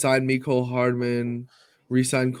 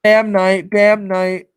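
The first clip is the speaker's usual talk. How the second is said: eager shout; 5 semitones higher, 7 dB louder, slower than usual. Real, not acted. Correcting player's nickname eagerly.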